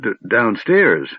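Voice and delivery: slow, startled stammer. Acted. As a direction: caught off guard, tripping on the word. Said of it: "stammered Tass".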